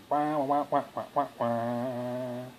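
understated pretend wah-wah wail; half-hearted imitation of a fussing baby; mock baby crying. Parent mimics baby's fit over swaddling, mild mock crying. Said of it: "And I'll have a fit".

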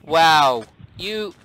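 put-on British accent; hammed-up British accent. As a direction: scold in a mock British accent. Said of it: "The only Indian with a British accent".

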